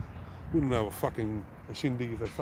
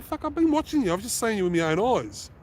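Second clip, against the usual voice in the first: much higher, louder furious yell; retold angry yell; 9 semitones higher, 3 dB louder than usual. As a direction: call him out loud and sharp. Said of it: "I said".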